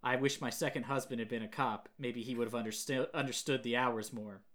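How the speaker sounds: imitated deadpan coroner, little pitch movement; emotionless. Imitating the coroner's odd small talk about divorce, emotionless. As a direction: recite it with no emotion. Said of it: "She has no emotion".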